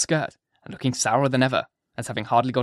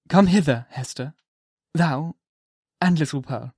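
the minister calling; 2 semitones higher than usual. Acted. Minister calling Hester and Pearl up to him. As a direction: call them up to you. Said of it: "said Reverend Mister Dimmesdale".

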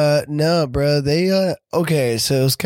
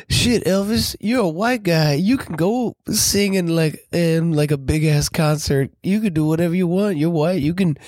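B B King; 3 semitones higher than usual. Retold or imitated. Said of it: "B B King's like".

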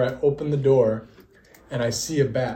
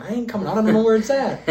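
laughing; 8 semitones higher, faster than usual. Retold or imitated. Retelling his own terror, laughing.

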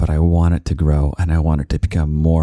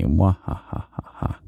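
evil laugh; 3 semitones higher, 3 dB quieter, slower than usual. Pretend. Villain laugh after threat.

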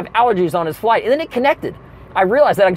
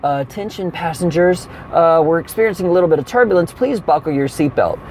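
airport announcement. Retold or imitated. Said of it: "I hear all of a sudden".

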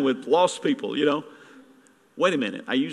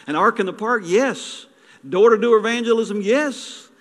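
rising fervent affirmations; 7 semitones higher, 5 dB louder than usual. Acted. Preacher building rhythmic affirmations.

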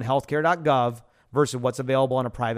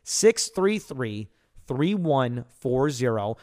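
slow dictation; slower than usual. Shown as a demonstration. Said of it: "One more time".

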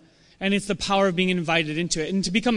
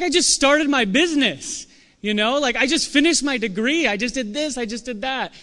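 higher, eager list of achievements; eager sharing; 5 semitones higher than usual. Retold or imitated. You telling friends about your wins, eager. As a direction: bubble over with your news.

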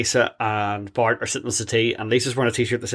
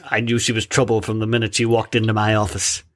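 noir detective; 3 semitones lower than usual. Retold or imitated. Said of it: "that's never been in a film noir".

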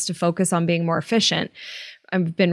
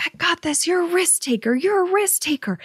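high, pumped-up self encouragement; self pep talk; 8 semitones higher than usual. Retold or imitated. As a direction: psych yourself up before the jump. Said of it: "I'm like".

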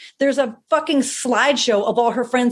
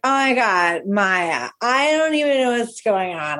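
put-on a touch of drunken confusion, pitch swooping; drunk host. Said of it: "You're fucking trashed".

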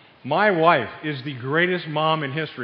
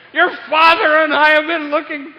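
put-on high, loud wail in a Jewish mother's accent; over-the-top Jewish accent, high-pitched and loud; the speaker's Jewish accent; 10 semitones higher, 9 dB louder than usual. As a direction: scold like a frantic Jewish mother. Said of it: "in her best Jewish accent".

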